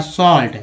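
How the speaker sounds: सॉल्ट with the "a" as a long open आ; long AA vowel. Shown as a demonstration. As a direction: model सॉल्ट, sounding its vowel as आ. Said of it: "ए का उच्चारण जो है आ के रूप में". (सॉल्ट में आ की लंबी ध्वनि)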